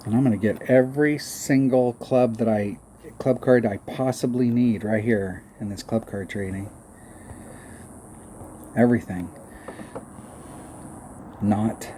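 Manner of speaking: understated mock confidence; lightly sarcastic boast, then a dry "not". Real, not acted. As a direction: play up the promise, then undercut it. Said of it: "Do you sense the sarcasm in my voice?".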